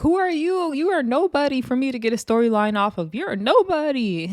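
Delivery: mock scorn. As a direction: imitate putting a rival down. Acts out a quarrel.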